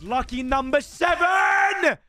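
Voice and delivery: excited shout. Real, not acted. Pack reveal hype.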